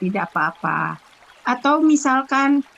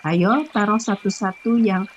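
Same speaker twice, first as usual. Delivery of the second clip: guided meditation. Acted. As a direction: ease the listeners into stillness. Leads breathing and meditation.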